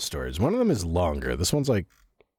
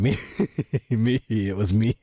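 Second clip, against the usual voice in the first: laughing mock confession; 4 semitones higher than usual.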